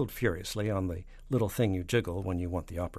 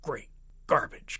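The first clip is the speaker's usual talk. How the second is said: drawn-out, higher exclamation; exasperated cry; 6 semitones higher, 4 dB louder, slower than usual. Acted. President slamming down the red phone, exasperated cry. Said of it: "cried the president".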